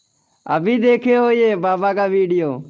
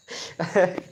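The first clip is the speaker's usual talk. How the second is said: short laugh; 5 dB quieter than usual. Real, not acted. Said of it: "मेरा खुद का हंसी नहीं रुक रहा है".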